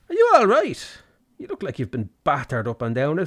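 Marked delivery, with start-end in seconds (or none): 0.1-1.0 mock concern. Mocking the ugly face.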